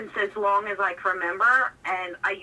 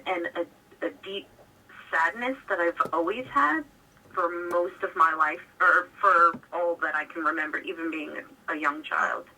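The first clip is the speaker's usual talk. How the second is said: over the phone; 2 semitones lower than usual. Real, not acted. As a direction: voice through a phone line. Caller describes problem on air.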